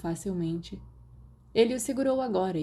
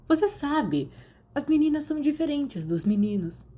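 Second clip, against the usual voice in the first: higher, patient explaining voice; Sirius explaining; 9 semitones higher than usual. A narrator's reading. Sirius explains girls to Remus, higher and patient. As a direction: spell it out for him.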